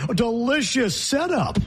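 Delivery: a poser commentator relishing the phrase; American announcer posing as British. Acted. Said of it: "and you go".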